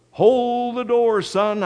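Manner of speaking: high, loud, drawn-out call; acted dad hollering instructions; shouted order. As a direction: call urgently across the house to your son. Dad shouting orders to his son.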